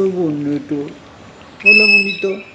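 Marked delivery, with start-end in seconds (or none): 1.6-2.4 high, loud sing-song hello to the parrot; cooing greeting. Real, not acted. Saluda al loro. (saludo agudo y cariñoso al loro)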